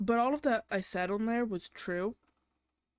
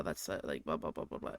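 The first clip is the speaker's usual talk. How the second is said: much lower, dopey mock voice for him; mocking boyfriend; 5 dB quieter than usual. Imitating her boyfriend's rant for viewers, mock low voice.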